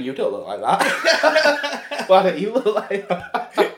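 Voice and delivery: slow, lightly voiced nagging wife; a hint of a disappointed wife; mock wife voice. Wife to husband at the circus, lightly mocking. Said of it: "your wife looking across at you going".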